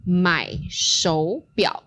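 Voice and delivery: 买手表 said slowly with clear tones; slow model phrase. Shown as a demonstration. Teacher demonstrates the phrase slowly for student. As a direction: spell out 买手表 at half speed. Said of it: "this goes something like this".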